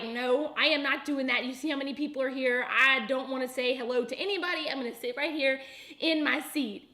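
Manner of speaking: quick, insistent retold refusal; adamant refusal. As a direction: act out digging your heels in. Retelling her instant refusal to husband.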